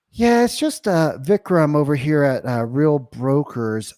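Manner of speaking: casual, hesitant self-introduction; curious customer service. Shown as a demonstration. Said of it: "Very curious, very slow".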